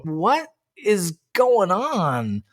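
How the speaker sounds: high, very drawn-out bafflement; exasperated. Real, not acted. Co-host rants about the show's timing, exasperated and incredulous. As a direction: stretch out each word in exasperation.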